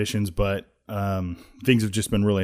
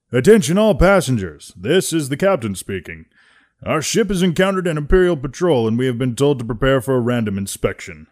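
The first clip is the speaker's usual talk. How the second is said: put-on louder, higher old captain's announcement; older captain; 5 semitones higher, 7 dB louder than usual. Captain Wilhelm announcing the inspection, older captain voice. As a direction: announce like a weathered old skipper. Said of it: "an older guy".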